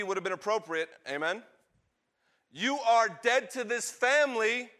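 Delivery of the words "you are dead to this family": loud, high condemnation; angry father. Acted. Father banishing his son from the family, angry. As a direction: disown him in raised, outraged tones.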